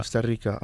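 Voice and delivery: コスタリカ said as the native Spanish name Costa Rica; native pronunciation. Shown as a demonstration. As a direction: repeat コスタリカ with its correct Spanish sounds. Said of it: "正しい発音が".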